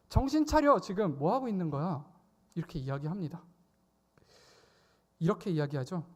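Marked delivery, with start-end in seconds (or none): 0.1-2.1 loud high rebuke, easing on the question; scolding shout. Retold or imitated. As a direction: scold the dazed disciples sharply. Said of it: "꾸짖는 거예요". (높고 크게 꾸짖으며)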